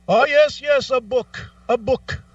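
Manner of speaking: high, eager repeated yeses; mock eager agent. Agent answering caller's book question, high eager mock voice. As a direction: act the rep nodding along too keenly.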